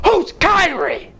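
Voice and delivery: high, slow clueless shout; confused shout. Retold or imitated. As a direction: bellow the question, lost. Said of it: "And I'm just like".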